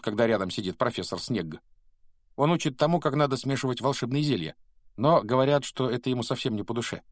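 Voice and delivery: a hint of a knowing older pupil; lightly voiced Percy. Percy telling Harry about Professor Snape, lightly voiced.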